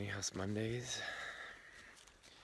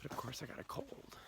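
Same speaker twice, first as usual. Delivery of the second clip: whisper; 6 semitones higher, 7 dB quieter than usual. Real, not acted. Sick, losing voice.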